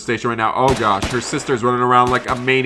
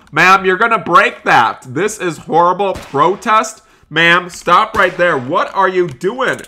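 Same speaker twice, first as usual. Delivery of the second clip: raised, higher voice of protest; exasperated acted warning; indignant calling out; 4 semitones higher, 4 dB louder than usual. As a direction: call out to stop a customer. Confronting customer climbing the store.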